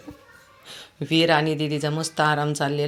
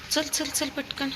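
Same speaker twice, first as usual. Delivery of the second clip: coaxing; 11 semitones higher, 4 dB quieter, slower than usual. Real, not acted. Coaxing dog, high soft slow.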